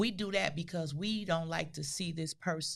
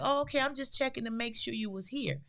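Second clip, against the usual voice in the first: imitating mother; 6 semitones higher, faster than usual. Mother voiced, reassured.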